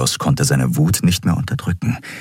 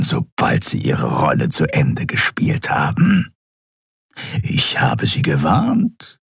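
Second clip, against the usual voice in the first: reptile prisoner, ominous. Acted. Reptile prisoner giving the admiral a last warning. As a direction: warn with cold calm.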